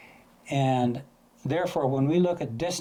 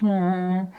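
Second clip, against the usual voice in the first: loud droning "aah" settling lower; lower-pitched vehicle noise; 6 semitones higher, 5 dB louder than usual. Shown as a demonstration. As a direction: imitate the lower tone of a receding car. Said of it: "goes down to a lower pitch".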